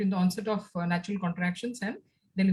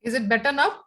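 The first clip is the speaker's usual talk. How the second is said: louder; 4 semitones higher, 5 dB louder than usual. Real, not acted. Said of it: "I'm coming close to it".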